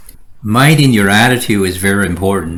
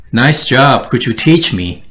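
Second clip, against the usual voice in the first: warm, admiring compliment; mean the praise; sincere praise. Shown as a demonstration. Coworker praising genuinely, sincere. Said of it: "Sounds a lot better".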